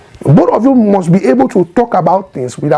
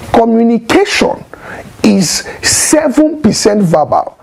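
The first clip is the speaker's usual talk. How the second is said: whisper; 3 semitones higher than usual. Shown as a demonstration. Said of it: "teaching about communication".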